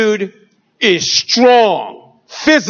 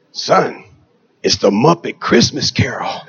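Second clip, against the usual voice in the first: hushed, much lower whisper; 9 semitones lower than usual. Retold or imitated. Mother whispering to her teary son during the movie. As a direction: lean over and whisper it.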